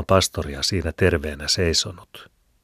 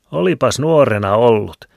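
higher, louder teasing jab; 7 semitones higher, 9 dB louder than usual. A narrator's reading. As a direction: poke fun at him. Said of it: "härnäsi Lienakin".

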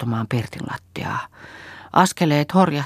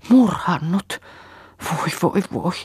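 bursting into tears; 6 semitones higher than usual. A narrator's reading. Kerttu sobbing to Saara, high and tearful. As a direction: wail it through sobs. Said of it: "turskutti rajatonta itkua".

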